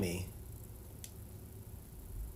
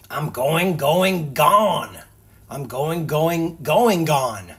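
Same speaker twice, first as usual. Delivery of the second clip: Barret losing it; 4 semitones higher, 11 dB louder, much slower than usual. Acted. Barret loses his mind.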